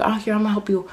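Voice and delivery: high mock mom voice; high-pitched put-on motherly help; imitated helpful mom.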